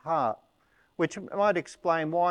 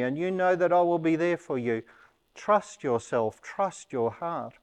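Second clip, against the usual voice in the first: tender encouragement; 3 semitones higher, 3 dB louder than usual. Pretend. Jesus speaking to Peter, voiced.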